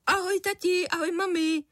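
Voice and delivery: put-on high, bright child greeting; a happy kid bouncing in; cheerful boy. A narrator's reading. Son greeting his parents at breakfast, high cheerful boy. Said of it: "pozdravil vesele".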